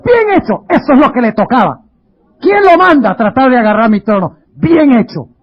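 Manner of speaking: mock gloating, laughing; gloating David. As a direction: sneer it's deserved. (David burlón y satisfecho, con risa)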